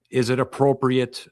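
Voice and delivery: "appropriate" given clear emphasis; stress on appropriate. Shown as a demonstration. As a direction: lean on the word "appropriate". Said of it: "emphasis on the word appropriate".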